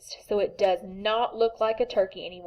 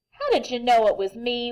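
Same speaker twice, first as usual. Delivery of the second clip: wailing; 3 semitones higher, 4 dB louder than usual. Acted. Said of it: "wailed Turkey".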